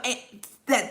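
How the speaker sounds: ordinary talk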